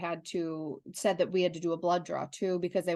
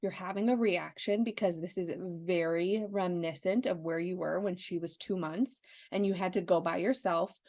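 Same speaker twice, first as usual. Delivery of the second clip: calm self-talk. Retold or imitated. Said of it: "in my head".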